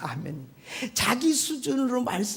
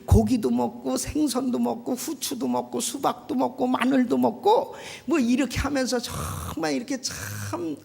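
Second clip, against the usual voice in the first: mock grumbling; 2 semitones higher than usual. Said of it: "원망하고 불평하면서".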